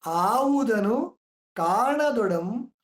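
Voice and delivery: very slow, drawn-out recital; slow poetic reading of a quoted line; verse recitation. Shown as a demonstration. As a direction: stretch every syllable of the verse. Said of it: "ಅಂತ D V G ಅವ್ರು ಹೇಳ್ತಾರೆ".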